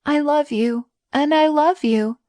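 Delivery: high, emotional I love you; tearful confession. A narrator's reading. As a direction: confess it through tears. Beauty confessing love, distraught.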